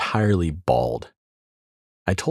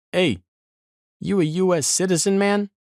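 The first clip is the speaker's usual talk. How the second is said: much higher, casual mock guard voice; imitated border guard; 11 semitones higher than usual. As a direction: play the bored checkpoint guard, pitched way up. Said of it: "this dude wearing fatigue says".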